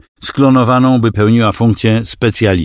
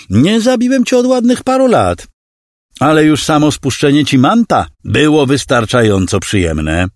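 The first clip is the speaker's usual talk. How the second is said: smug villain voice, pitched up; gloating villain; 7 semitones higher than usual. A narrator's reading. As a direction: relish every word of the threat. Villain Klawer's voice.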